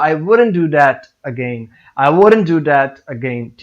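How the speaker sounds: slow, deliberate stress on that. Shown as a demonstration. Someone admitting their own mistake, stress on THAT. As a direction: draw out THAT before again. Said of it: "that का word है इसको stress करेंगे".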